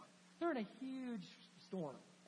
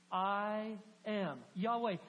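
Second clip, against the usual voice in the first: I am Yahweh, drawn out very slowly and louder; slow proclamation; 4 dB louder, much slower than usual. Acted. Preacher proclaiming God's name to the congregation, slow and loud. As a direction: proclaim each word of I am Yahweh.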